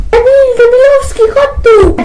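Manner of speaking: high furious shout at the son; shrill-free high angry call across the house; angry yell. Acted. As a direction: bellow for him to come here. Mother yells for her son.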